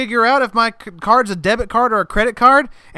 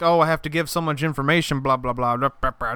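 mocking whiner; 6 semitones lower, 5 dB quieter than usual. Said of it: "I'm not talking about, like".

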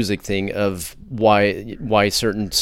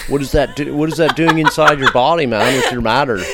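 mock skeptic; 4 semitones higher, 6 dB louder than usual. Mocking skeptic's question.

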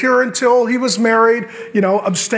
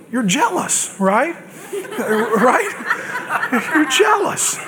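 laughing tease; 5 semitones higher, much slower than usual. Real, not acted. Teasing congregation about jealousy.

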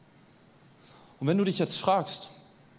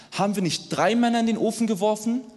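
alarmed king; 6 semitones higher, 4 dB louder than usual. A narrator's reading. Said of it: "entsetzt auf und fragte".

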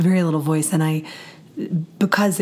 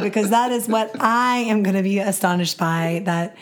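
hoarse, nearly gone voice; raspy whisper. Real, not acted. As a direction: rasp it out with little voice. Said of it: "even though I have no voice".

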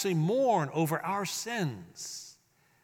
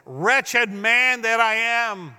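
anguished cry; 3 semitones higher, 6 dB louder, much slower than usual. Retold or imitated. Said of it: "as he cries out".

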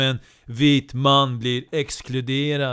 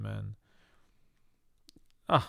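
ordinary delivery

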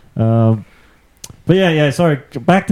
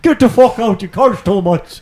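higher, playful mock yell; mock eviction; 9 semitones higher than usual. Pretending Sligo evicted the friend, playful mock yell. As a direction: pretend to throw her out.

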